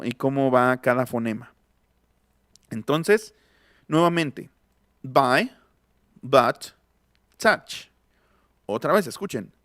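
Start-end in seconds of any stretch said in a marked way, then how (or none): 5.0-7.9 "buy, but, touch" one by one, vowel between A and O; intermediate vowel. Shown as a demonstration. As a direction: say "touch" as "tach", each word separate. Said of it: "Es una vocal intermedia".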